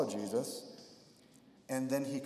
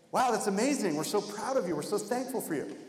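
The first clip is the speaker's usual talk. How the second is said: mock praise; 7 semitones higher than usual. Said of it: "they didn't say".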